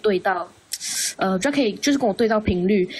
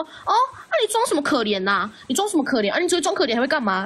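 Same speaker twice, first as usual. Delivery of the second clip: higher, imitated scornful jab; retold contemptuous taunt; mocking sneer; 5 semitones higher than usual. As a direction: mimic someone sneering at you. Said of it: "这臭小强就说".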